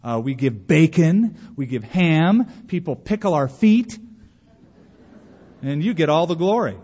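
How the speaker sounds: disgruntled pig. Acted. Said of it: "the pig was so disgruntled".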